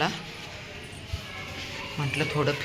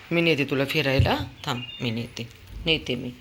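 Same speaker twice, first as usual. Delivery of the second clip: ordinary talk, nothing marked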